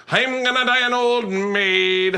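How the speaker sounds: slow, lightly voiced Irish woman; a hint of a sighing Irish lass; mock Irish woman. Comic quoting an Irish woman he met, mock Irish accent. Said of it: "She goes".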